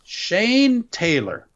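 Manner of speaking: slow, drawn-out ring intro; announcer voice. Acted. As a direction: draw the name out like an announcer.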